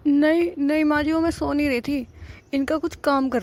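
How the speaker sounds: high-pitched, pleading denial; anxious excuse. Acted. Scolded daughter-in-law hastily excuses herself. (घबराकर ऊँची आवाज़ में सफ़ाई)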